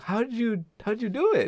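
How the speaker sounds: a hint of an eager kid; curious kids' question. Kids question astronaut in sketch.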